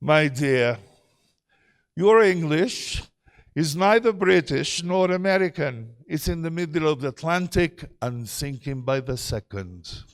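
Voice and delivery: imitated British teacher, lightly done; impeccable Queen's English. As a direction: put on a measured, proper British accent. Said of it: "in her impeccable Her Majesty's English".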